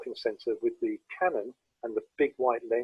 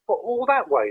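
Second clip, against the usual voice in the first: higher, louder mock-incredulous teen; surprised question; 10 semitones higher, 5 dB louder than usual. Teenage lad amazed the photographer came from Lincoln, high and louder. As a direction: retell the lads' astonishment, playfully.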